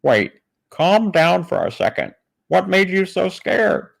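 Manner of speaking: high, hammed-up concerned questioner; Kent Hovind. Kent calming the frightened man, exaggerated high-pitched concern. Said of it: "this story is Kent Hovind".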